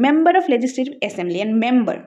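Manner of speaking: very slow, each word laid out; slow spelled-out reading. Shown as a demonstration. Teacher spelling out the full form slowly for students. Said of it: "ফুল ফর্মটা দিয়ে দিই".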